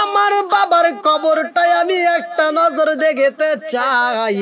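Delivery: pleading wail. Acted. Boy begs to see father's grave.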